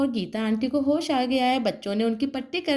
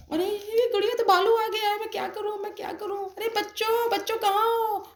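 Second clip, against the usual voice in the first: high, startled, frantic questions; alarmed neighbour; 5 semitones higher than usual. Acted. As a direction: rush in alarmed and lost. Neighbour hears cries, panics.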